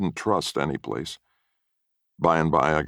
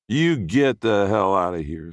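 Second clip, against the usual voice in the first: hostile order; 6 semitones higher, 3 dB louder than usual. A narrator's reading. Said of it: "said Ding".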